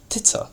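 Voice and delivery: quick, tittering delivery of the word; word-painting. Shown as a demonstration. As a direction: TITTER said short and light. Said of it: "bring out the meaning of the word by its sound".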